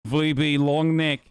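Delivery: put-on slow, tentative Australian accent; half-remembered Aussie twang, drawn out; attempted Australian accent. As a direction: try out a rough Aussie accent. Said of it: "I forgot how to do an Australian accent".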